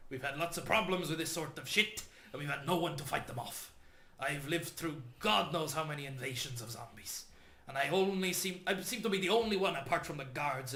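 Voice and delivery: bitter townsman ranting about guards; gruff NPC. Acted. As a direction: voice a bitter local. NPC speaking to the party.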